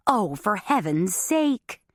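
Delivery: slow, drawn-out groan of dismay; long weary groan. Acted. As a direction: sigh it out in exasperation. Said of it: "Mom groaned in dismay".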